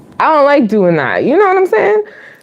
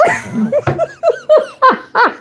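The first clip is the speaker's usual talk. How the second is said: big laugh. Real, not acted. Laughing at own story.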